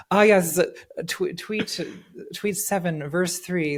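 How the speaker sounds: lightly voiced scripture scholar; mock scholar. Host citing tweets like Bible verses, mock scholar. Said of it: "I'm like a scholar of the things".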